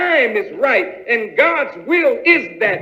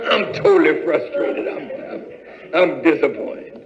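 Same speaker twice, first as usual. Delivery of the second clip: lower, laughing through the complaint; laughing in frustration; 6 semitones lower than usual. Acted. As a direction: laugh at your own misery. Answerer laughs while complaining.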